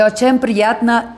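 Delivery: slowly sounding out очень приятно; dictating очень приятно for a learner; slow dictation. Retold or imitated. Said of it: "Dime cómo se dice todo".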